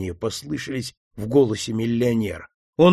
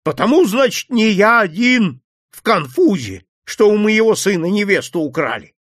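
much higher, louder furious tirade; 9 semitones higher, 4 dB louder than usual. Acted. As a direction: tear into the old man like a tigress. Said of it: "привело в ярость прибывшую купчиху".

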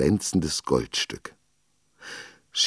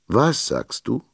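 put-on high, hard-of-hearing old man's bluster; blustering old teacher; 8 semitones higher, slower than usual. A narrator's reading. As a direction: bark back at the girl. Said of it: "polterte der alte Schullehrer". (polternder alter Lehrer, hoch und gereizt)

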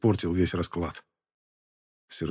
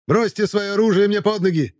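shrill, piping voice, much higher; high squeaky voice; 12 semitones higher, 5 dB louder than usual. Acted. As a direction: squeak it out like a eunuch. Sermet's voice again.

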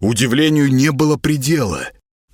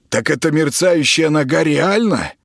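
high, brash and rude, hurling insults; high, scornful voice of a bratty celebrity patient; 6 semitones higher than usual. Acted. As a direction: snap at the stranger like a spoiled star. Klaus voice.

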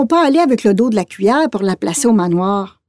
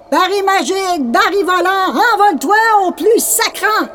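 witch incantation; 10 semitones higher than usual. Acted. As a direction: cast the spell in a shrill witch voice. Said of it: "récite une formule magique".

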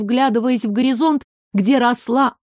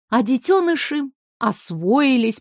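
usual speaking voice

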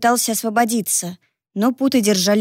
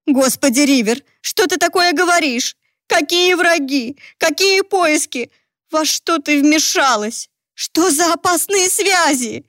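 higher, slow, anxious questioning; a frightened mother pressing for answers; alarmed questions; 7 semitones higher than usual. Acted. Mother alarmed by her daughter's danger, anxious and slow.

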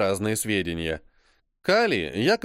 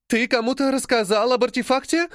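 high, aghast question; horrified; 10 semitones higher, 3 dB louder than usual. Acted. Journalist horrified that John told about the artefact. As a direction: ask it in dawning horror. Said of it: "Француженка в ужасе".

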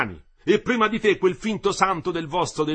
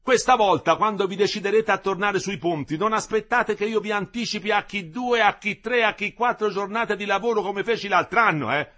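loud, higher angry reproach; indignant tirade; 9 semitones higher, 9 dB louder than usual. A narrator's reading. The engineer keeps berating the workers indignantly. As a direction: scold them for ingratitude.

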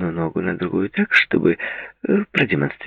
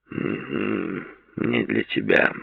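dull flat repeat; 8 dB quieter, much slower than usual. A narrator's reading. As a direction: repeat it dully. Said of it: "глухо повторил он".

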